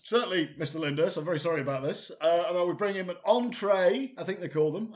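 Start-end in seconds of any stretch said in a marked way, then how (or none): 0.0-2.1 apologetic waiter. Acted. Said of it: "Uh, I says".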